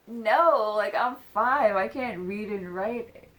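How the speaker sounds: put-on loud, indignant kid's protest; kid shouting back. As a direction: shout it like an outraged five-year-old. Yelling his child self's protest.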